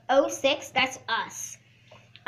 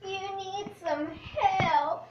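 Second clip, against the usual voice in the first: slow meme voice; 4 semitones higher, slower than usual. Acted. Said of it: "I have a new meme".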